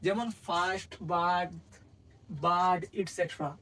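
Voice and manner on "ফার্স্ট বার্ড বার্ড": ফার্স্ট and বার্ড with an open "aa"; vowel as আ. Shown as a demonstration. Teacher lists examples of the rule, pronunciation demo. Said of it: "আয়ের উচ্চারণ আ বলি".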